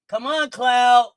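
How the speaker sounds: drawn-out, loud urging; urging on a player in foul trouble; slow shout. Real, not acted. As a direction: stretch it out and yell.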